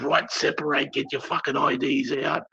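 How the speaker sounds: high-pitched imitation of a cop's command; retold police order. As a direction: order them apart, pitched well up. Retold cop ordering the group apart.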